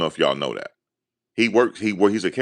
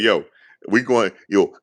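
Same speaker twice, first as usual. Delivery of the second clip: excited yell; 5 semitones higher, 5 dB louder than usual. Retold or imitated. Hyped retelling to friend.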